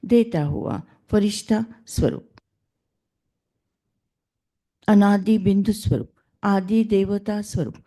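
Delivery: measured recitation in short, separated phrases; meditation affirmations. Acted. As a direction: lead listeners through affirmations, phrase by phrase. Leads affirmations before the reading. (ध्यान में आत्म-चिंतन का लयबद्ध पाठ)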